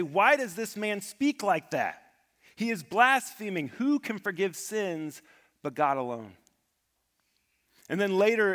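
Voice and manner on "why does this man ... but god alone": higher, louder, mock outrage of the priests; indignant priests. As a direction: voice the priests' scandalised protest. Priests voiced in retold scene.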